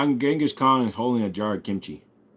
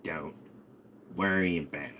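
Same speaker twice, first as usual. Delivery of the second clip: low, much softer dismissal; hushed parental warning; 5 semitones lower, 9 dB quieter than usual. Acted. Parent repeating an answer to a child, low and hushed. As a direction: drop low and quiet to shut the question down.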